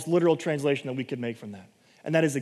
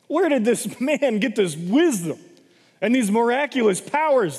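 incredulous townsfolk; 5 semitones higher, 3 dB louder than usual. Acted. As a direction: ask it like stunned neighbours. Townspeople doubting Jesus.

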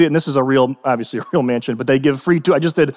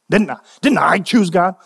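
mildly indignant protest. Acted. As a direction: question it with a touch of indignation. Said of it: "somebody asked indignantly".

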